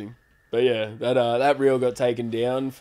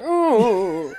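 camp ooh; 8 semitones higher, 3 dB louder than usual. Retold or imitated. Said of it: "me being all like".

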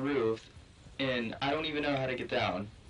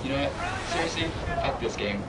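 furious rant; 3 dB louder than usual. Real, not acted. Raging after dying.

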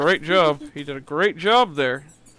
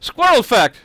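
loud, higher announcement; announcer cheer; 5 semitones higher, 6 dB louder than usual. Acted. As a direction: announce it like a game show. Announcing fact.

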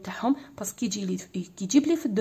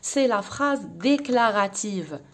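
slow dictation; much slower than usual. Shown as a demonstration. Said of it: "Le premier type".

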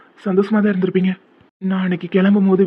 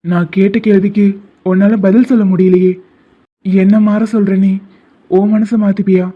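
louder, pressing for an answer; demanding confrontation; 5 dB louder than usual. Acted. Friend demanding an answer he cannot give, raised insistent voice. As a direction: corner him with the question.

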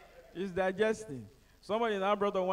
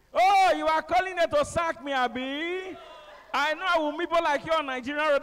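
high, loud, very slow screaming rant; furious driver; 9 semitones higher, 8 dB louder, slower than usual. Retold or imitated. Bus driver on the phone cursing the caller, furious screaming rant. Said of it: "Next thing I heard was".

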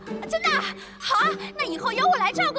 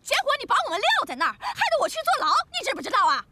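fast, rising indignant complaint; angry scolding; 4 semitones higher than usual. Acted. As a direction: scold him for abandoning you. 师母责怪师父失约. (气冲冲地埋怨)

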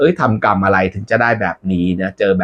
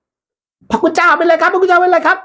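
very high, slow worried voice; squeaky concern; slower than usual. Acted. Messenger asking the monk what's wrong, very high. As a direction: fret in a tiny high voice.

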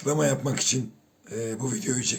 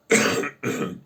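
strained, forced hoarse cough. Real, not acted. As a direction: push out a dry forced cough. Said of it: "öksürüğüm bile zorla çıkıyor".

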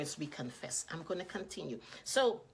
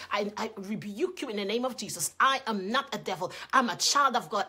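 firm rebuke, growing louder; bold declaration; 5 dB louder than usual. Retold or imitated. Mother voices her son rebuking the woman, bold and loud. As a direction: stand up boldly and declare it. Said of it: "and he was bold".

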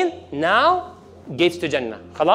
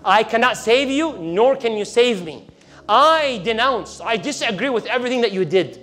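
devil denouncing; 3 semitones higher than usual. Retold or imitated. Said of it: "Then he says at the end".

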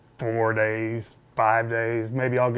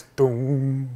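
imitated bass note. Player imagining how the first string should ring, imitated bass boom. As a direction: sustain it like a plucked bass string. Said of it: "That doesn't sound anything like that".

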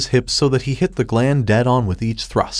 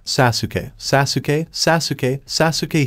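name chanted over and over, pitch climbing; mantra-like repetition; slower than usual. A narrator's reading. Naruto repeating his partner's name, mantra-like. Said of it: "he repeated over and over again like a mantra".

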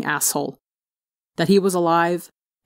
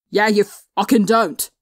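higher, slow, louder angry hiss; 4 semitones higher, 4 dB louder than usual. A narrator's reading. Tearful Tommy hisses angrily at his brother, slow and louder. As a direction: spit it out through tears. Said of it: "Tommy hissed".

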